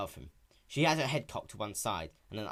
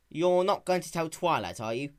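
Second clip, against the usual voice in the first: put-on young dragon voice; 6 semitones higher, 6 dB louder than usual. Spike voiced in story.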